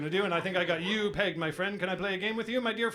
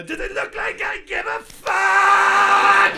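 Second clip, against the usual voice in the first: street person retort; 13 semitones higher, 10 dB louder, much slower than usual. Retold or imitated. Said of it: "his response to that was".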